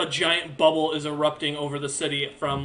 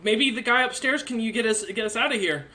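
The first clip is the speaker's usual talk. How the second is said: put-on slightly higher, hesitant kid voice; a hint of a kid, stumbling over the words; lightly voiced kid; 5 semitones higher than usual. Kid offering a magic item to get out, hesitant higher voice. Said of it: "The kid goes".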